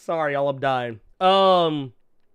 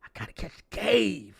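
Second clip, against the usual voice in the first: mock soldier; 3 semitones lower, 6 dB quieter than usual. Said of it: "Be like".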